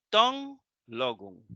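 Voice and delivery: "ton... logon", two distinct words; pronounced as separate words. Shown as a demonstration. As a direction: give "ton" its own accent, break before "logon". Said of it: "Esas se pronuncian aparte".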